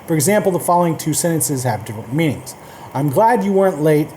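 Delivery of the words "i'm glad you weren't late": sincere, even-paced relief; genuinely relieved. Shown as a demonstration. Reading the example to learners, genuinely relieved. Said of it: "first sentence sounds genuinely relieved".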